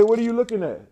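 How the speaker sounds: high, baffled retold question; incredulous. To the nurse staring upward, high incredulous question.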